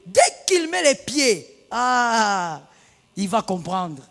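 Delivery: a vengeful wife plotting aloud; mock angry wife. Wife plotting against her husband, mock angry. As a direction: play the wife waiting to strike. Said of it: "Tu dis".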